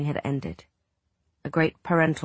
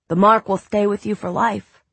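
put-on boy reading dramatically; 5 semitones higher, 6 dB louder than usual. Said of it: "cried the pirate".

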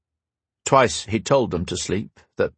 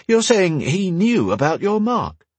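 temper sparking; 9 semitones higher than usual. Acted. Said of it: "her temper sparking".

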